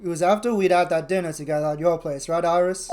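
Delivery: British accent, acting out game dialogue. Streamer reading defendant and lawyer dialogue aloud, British accent. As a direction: voice courtroom-drama characters in a British accent. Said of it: "Can I even do a British accent anymore?".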